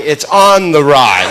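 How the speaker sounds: "on" stretched and leaned on, slow; stress on ON. Shown as a demonstration. Comic telling the crowd how to say it, "on" stressed slowly. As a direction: draw out "on" in "it's on the rye". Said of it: "You have to say it like that".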